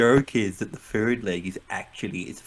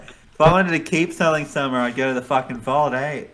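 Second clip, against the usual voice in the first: in character; 3 semitones higher, 7 dB louder than usual. Acted. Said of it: "now I can't get it right".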